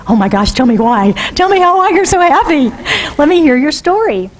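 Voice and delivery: mock-thrilled friend asking for the story; eager friend. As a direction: gush at the happy news.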